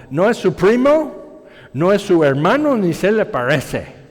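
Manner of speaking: put-on Spanish with a light Texan accent. Preacher imitating his Texan friend at the parts store, light Texan accent. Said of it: "con su acento muy tejano".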